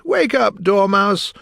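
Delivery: high, loud wake-up call; crying out. A narrator's reading. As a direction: shout to rouse a sleeper. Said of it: "they both cried".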